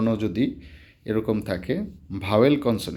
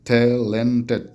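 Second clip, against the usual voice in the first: "ট্যালেন্টেড" slowly in three syllables, louder; 5 dB louder than usual. Shown as a demonstration. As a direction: break "ট্যালেন্টেড" into three loud, drawn-out beats. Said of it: "তিন syllable". ("ট্যালেন্টেড" তিন সিলেবলে ভেঙে, ধীরে ও জোরে)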